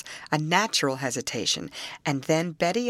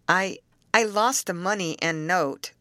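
faltering. Acted. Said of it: "faltered poor Harry".

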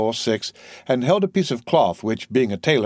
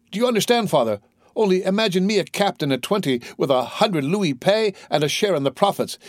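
put-on higher-pitched, eager young sailor; excited young son; 5 semitones higher than usual. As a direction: share great news with an old father, brimming over.

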